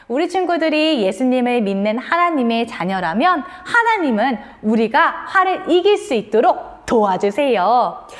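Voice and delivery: ordinary talk, nothing marked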